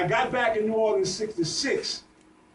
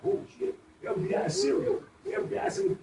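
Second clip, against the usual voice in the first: high, whispered imitation of fright; mock panic; 12 semitones higher, 3 dB quieter than usual. Elder retells the panic after the killings in a high, hushed mock-fear voice. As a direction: voice the community's fear, much higher and hushed.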